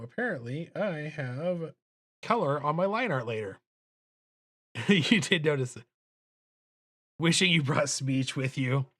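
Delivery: ordinary delivery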